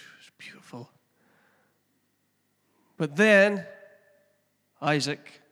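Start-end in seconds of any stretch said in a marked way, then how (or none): 0.1-0.9 dreamy whisper. Retold or imitated. Recalling his couch nap, whispered blissfully.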